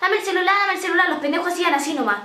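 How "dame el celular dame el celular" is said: higher, cocky street demand; a touch of a thuggish girl demanding the phone; tough-girl demand. Retold or imitated. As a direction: bark it like a small-time thug. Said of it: "decía algo turro".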